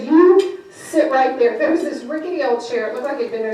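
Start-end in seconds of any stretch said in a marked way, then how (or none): 0.0-1.6 loud, slow mock command; heavy, drawn-out imitation of a gruff buyer; imitated angry order. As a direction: order someone about like a grumpy boss. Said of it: "he looked angry".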